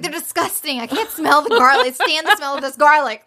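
high, revolted mock complaint; playfully hammed-up revulsion; cranky disgust. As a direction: act out a pregnant woman grossed out by food. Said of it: "She's hormonal and cranky".

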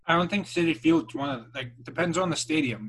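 talking while chewing food; mouth full. Real, not acted. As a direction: speak through a mouthful of food. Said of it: "Talk with your mouth full more".

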